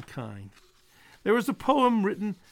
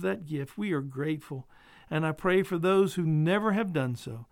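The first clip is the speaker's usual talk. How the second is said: prayer. Acted. Pastor praying for his listeners, earnest and hushed.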